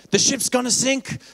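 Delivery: high, loud, drawn-out alarm cry; mock screaming. Mock doomsayer warning passengers on the ship, screaming. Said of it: "I don't run around screaming".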